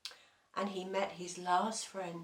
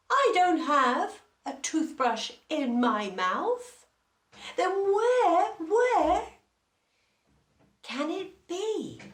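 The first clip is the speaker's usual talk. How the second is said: high, loud puzzled exclamation; exasperated lion; 10 semitones higher, 7 dB louder than usual. Acted. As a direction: throw up your hands, where can it be. Lion denies having toothbrush.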